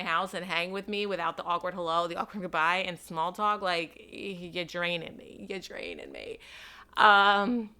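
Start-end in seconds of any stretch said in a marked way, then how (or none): 5.5-6.4 mock deep voice. To the listeners about small talk, a sudden deep low repeat. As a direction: repeat it in a suddenly much lower, deadpan voice.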